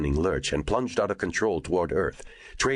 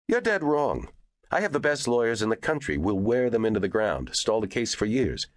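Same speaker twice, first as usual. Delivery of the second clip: high, heated boasting; angry boast; 7 semitones higher than usual. A narrator's reading. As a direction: fire back with defiant pride.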